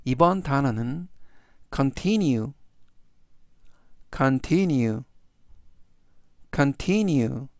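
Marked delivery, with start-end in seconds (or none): 1.7-7.5 continue stressed on the I after T, con-TIN-ue; stress on middle syllable. Shown as a demonstration. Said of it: "T 바로 뒤에 있는 I의 강세". (continue의 T 뒤 I에 강세)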